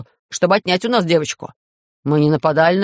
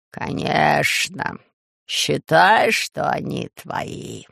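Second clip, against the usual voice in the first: ruler kindly hands over the prisoners; gently; much slower than usual. Acted. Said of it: "ласково ответил повелитель".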